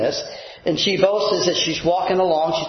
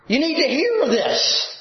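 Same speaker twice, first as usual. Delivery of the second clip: urgent everyday phrasing; 8 semitones higher than usual. Retold or imitated. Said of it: "Or it would be more like".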